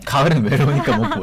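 giggling as you echo; laughing echo. Real, not acted. Echoing the line while laughing. (웃으면서 따라 말하기)

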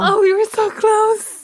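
high, loud, drawn-out lament; exasperated near-miss. Real, not acted. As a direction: wail over barely missing the answer. Just missed the quiz answer. (아깝다는 듯 크게 탄식)

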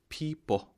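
"people" as "pee-ppo", like Apple; reduced ending demo. Shown as a demonstration. Teacher comparing it to Apple for learners, "people" as "pee-ppo". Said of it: "이뽀가 되죠".

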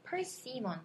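"persimmon" with unstressed "sim" given a full ee vowel; over-full vowels. Shown as a demonstration. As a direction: say "persimmon" sounding every vowel fully. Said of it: "이렇게 안 해도 돼요".

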